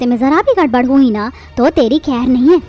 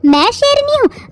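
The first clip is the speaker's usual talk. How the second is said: indignant outrage; 11 semitones higher than usual. Acted. Mother offended at son's remark.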